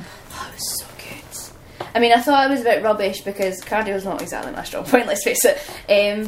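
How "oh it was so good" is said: soft slow whisper. Real, not acted. Answering about WWE tryouts in a slow whisper. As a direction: breathe it out as a secret whisper. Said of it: "whispered reply".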